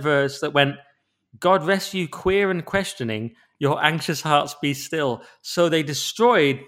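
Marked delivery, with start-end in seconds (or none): 1.4-5.2 mock solemn reading. Reading the third verse.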